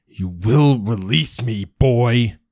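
screaming. Acted. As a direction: scream it right in his face. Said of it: "he screams into Progeny's face".

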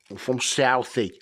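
mock Southie Boston accent; Bostonian accent. Podcaster claiming to be from Southie, Bostonian accent. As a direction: put on a South Boston local. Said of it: "how good my Bostonian accent is".

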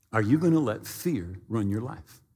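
low, measured gentle challenge; God's inner voice. Retold or imitated. God confronts the frightened pilot, low solemn question. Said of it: "I sensed God say to me".

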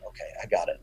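very soft, low mock surrender; cowed aside. Backer silenced by his player's glare, meek low aside. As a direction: back off quietly, almost to yourself.

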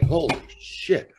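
slow, winded stoned exclamation; out of breath. Retold or imitated. Stoned man recounting a shaky bathroom trip, out of breath. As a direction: act out being nearly out of breath. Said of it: "almost out of breath".

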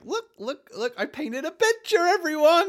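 put-on high, eager child showing off a drawing; childlike show-and-tell. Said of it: "very much a Godric, just like".

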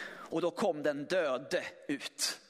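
ordinary delivery

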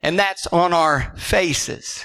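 hushed reverence. Acted. Hushed worship climax.

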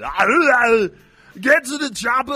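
loud, high Austrian action-hero yell; garbled mock action-movie roar; terrible Arnold Schwarzenegger. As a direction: bellow a hammed-up Austrian impression. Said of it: "Arnold, so".

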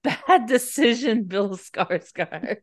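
slow, drawn-out tut-tut; mock scolding. Real, not acted. Friend scolds the actor's character, slow and teasing. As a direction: scold him slowly, teasing.

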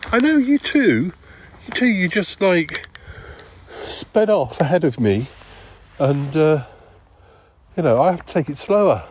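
a hint of a fussy old man; high-pitched character voice. The speaker's own voice, higher.

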